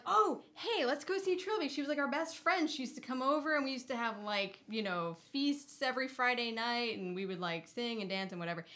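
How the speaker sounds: high excited gushing voice; friends gushing. Retold or imitated. Old friends gushing about visiting Trilby, high and excited. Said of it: "They're like".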